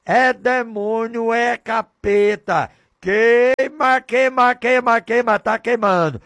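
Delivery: loud fiery cry against the devil; burning fervor, shouted; preaching shout. Acted. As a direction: shout it out like casting out a demon.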